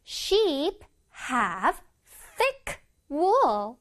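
one word at a time with pauses; slow model reading. Shown as a demonstration. Teacher reading an example for children, word by word. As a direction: space out every word clearly.

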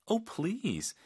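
high, falling "Oh, please"; fed up with the denial; exasperated oh please. Shown as a demonstration. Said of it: "답답할 때 이런 표현". (답답하다는 듯 높은 "Oh, please")

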